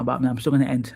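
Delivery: ordinary talk, nothing marked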